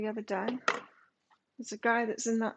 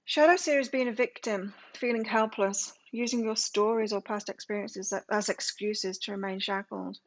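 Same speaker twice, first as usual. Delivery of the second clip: reading aloud; 6 dB louder than usual. Real, not acted. Reads card meaning aloud.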